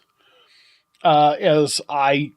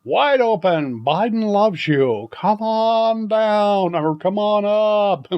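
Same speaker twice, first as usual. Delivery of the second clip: mock come-on pitch; 4 semitones higher, much slower than usual. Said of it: "send the message far and wide".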